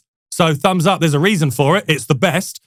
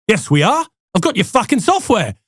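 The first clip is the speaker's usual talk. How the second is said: cocky CEO in a rough accent imitation; mock-indignant retort in a put-on accent; 4 semitones higher than usual. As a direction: fire back in a badly faked accent. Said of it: "keep doing the accent".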